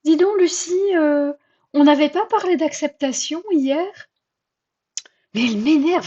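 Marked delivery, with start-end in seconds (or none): 0.0-4.1 higher, gently teasing inner voice; mocking tone. Inner voice teasing Lucie about acceptance, mocking. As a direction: tease her about what she promised. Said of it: "d'un ton un petit peu moqueur".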